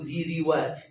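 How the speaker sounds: ذي روات with an i after both dh and r; awkward plural form. Shown as a demonstration. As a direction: sound out ذي روات as dhi-ri-waat. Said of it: "حتى لا يكون فيه صعوبة".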